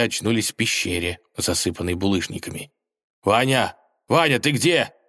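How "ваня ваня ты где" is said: calling out. Acted. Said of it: "позвал волк".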